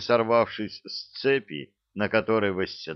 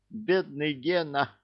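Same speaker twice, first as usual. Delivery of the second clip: high, slow pitying voice; sympathetic; 6 semitones higher than usual. A narrator's reading. Father squirrel feeling sorry for the cat, sympathetic. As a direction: pity him, drawing the words out. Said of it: "сочувственно процокал папа Белка".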